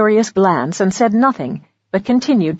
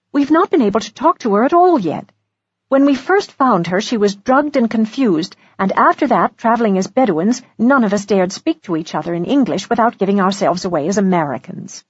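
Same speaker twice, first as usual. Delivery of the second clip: higher, lightly voiced woman character; woman explaining; 3 semitones higher than usual. Woman explaining their journey to their host, higher and earnest. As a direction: explain it earnestly in a raised pitch. Narrator voices Missus Polifax.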